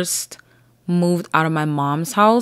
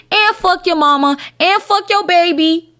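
shrieking insults up high; hammed-up high-pitched cussing; high mock yell; 11 semitones higher than usual.

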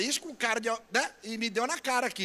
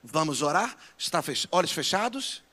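a lower, canned pastor-bot greeting; mock church phone bot; 6 semitones lower than usual. Pastor joking to congregation in mock app-assistant voice. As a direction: pretend to be the church app voice answering. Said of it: "no celular vai ter alguém".

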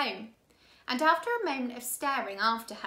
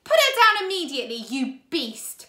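loud, fast, higher angry shout; 4 semitones higher, 10 dB louder than usual. A narrator's reading. Klaus shouting at Count Olaf to drop Sunny, loud. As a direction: yell it to save his sister. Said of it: "Klaus shouted".

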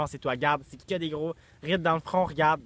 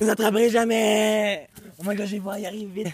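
being chased; 5 semitones higher, 8 dB louder than usual. Pretend. Fleeing pursuers.

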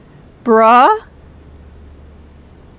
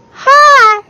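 shrill, loud panicked greeting; startled high shout; 11 semitones higher, 5 dB louder, much slower than usual. Real, not acted. Player greeting the monster in terror, shouting. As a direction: yelp it out in fright.

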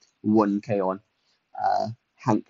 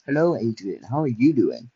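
weird tone. Acted. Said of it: "said that in a very weird tone".

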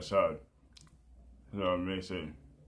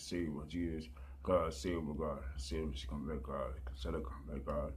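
pleading prayer; 2 semitones lower, 4 dB quieter than usual. Real, not acted. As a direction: pray it softly, over and over. Murmured plea for salvation.

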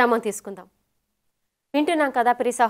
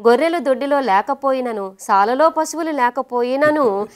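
scripture reading. Acted. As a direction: read the verse out formally, drawing out each clause. Reads a Bible verse aloud.

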